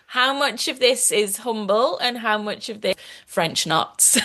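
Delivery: gentle Scouse accent. Shown as a demonstration. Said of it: "I say that gently in a Scouse accent".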